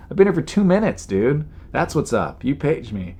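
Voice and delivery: indignant retort starting high, then settling; mildly cracking, aggrieved comeback; worked-up anger. Retold or imitated. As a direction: replay your complaint to the agent, exasperated. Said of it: "now I'm just angry".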